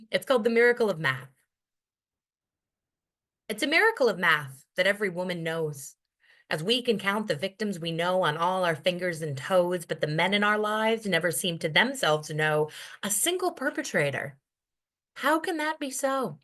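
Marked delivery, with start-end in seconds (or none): 3.5-14.4 measured, rhythmic slam poetry delivery; spoken word poem. Acted. Poet performing her piece for the audience, measured and rhythmic. 15.1-16.4 sharp question. Acted. Poem's rhetorical question.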